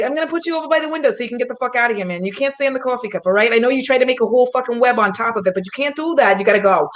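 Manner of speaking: lightly put-on tough-guy accent, fast; a hint of a streetwise accent, rushed. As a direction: talk to the spider in a mild tough accent. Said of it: "spiders like it better when you have an accent".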